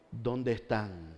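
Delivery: very slow, soft "¿Dónde están?"; slow grave question. Acted. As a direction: stretch "Dónde" out, heavy and quiet. God's question repeated slowly.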